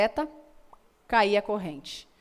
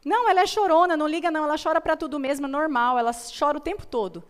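dismissive mother; 5 semitones higher, faster than usual. Retold or imitated. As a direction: imitate a careless mom waving the crying away, picking up speed. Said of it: "vi uma mãe falando assim". (mãe desdenhosa, mais alta e mais rápida)

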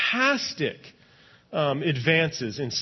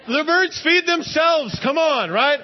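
higher, louder and slow, playing the doubter; mock skeptic; 9 semitones higher, 5 dB louder than usual. Preacher mocking a skeptic for the congregation, hammed-up scoff. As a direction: ham up the scoffer who says the birds manage alone.

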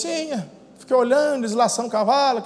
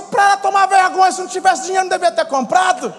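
high, loud indignant telling-off; mock-righteous rant; retold scolding; 7 semitones higher, 5 dB louder than usual. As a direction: lay down the law, pitched up.

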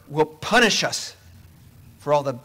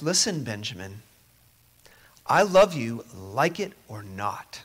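calm insistence, word by word; firm loving father; 4 semitones lower than usual. Retold or imitated. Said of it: "He says".

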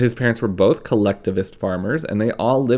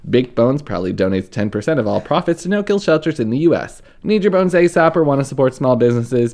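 upbeat sponsor read, lightly pushed; 4 dB louder than usual. Acted. Host reading a sponsor spot to listeners, cheerful ad read. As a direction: sell the dog treats like a podcast host.

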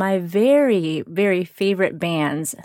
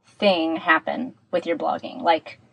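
tin can sound. Real, not acted. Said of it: "so it sounds a bit like I'm in a tin can".

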